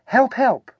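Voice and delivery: very high, loud little voice; squeaky cry. A narrator's reading. Trapped small creature calls for help, squeaky high voice. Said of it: "my voice has gone all squeaky".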